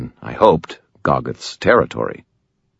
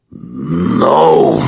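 a louder, snarled troll refusal; snarling troll; 4 dB louder than usual. Acted. Troll refuses the wizard with a snarl. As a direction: spit the word back. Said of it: "he snarled".

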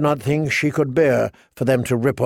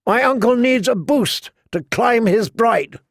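mocking boy king; 9 semitones higher than usual. A narrator's reading. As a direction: jeer like a cruel boy king. Joffrey mocking at wedding.

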